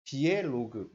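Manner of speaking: slow, measured reading of the term; deliberate teacher's read-out; reading out notation. Shown as a demonstration. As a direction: read it out slowly, phrase by phrase. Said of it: "이렇게 읽어요".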